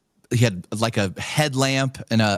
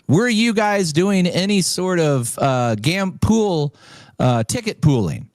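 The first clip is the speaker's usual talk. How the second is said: much higher, halting questioning voice; official questioner; 8 semitones higher than usual. Retold or imitated. Caller interrogates the winner, high halting official. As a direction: probe like a stiff investigator.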